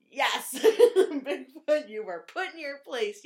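cheer, then rub it in gleefully; re-enacted victorious taunt; triumphant gloating. Retells triumphant reaction to scene.

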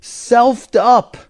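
punchy high slangy "selfed up"; quoting slang with a lift. Retold or imitated. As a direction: toss off "selfed up" like local slang. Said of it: "as they would say in some communities".

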